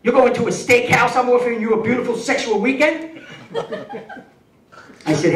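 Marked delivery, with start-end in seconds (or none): 0.0-3.2 retold scream. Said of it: "she starts screaming at me".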